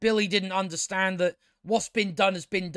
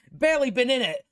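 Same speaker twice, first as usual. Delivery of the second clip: whispered laugh; 8 semitones higher than usual. Real, not acted. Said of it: "laughs, whispered aside".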